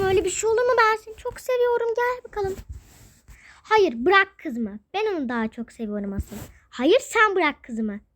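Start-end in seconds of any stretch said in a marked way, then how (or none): 3.7-4.8 slow, firm, louder demand; angry tug-of-war. Acted. Parents fighting over daughter. 6.7-8.0 angry tug-of-war. Acted. Parents fighting over daughter.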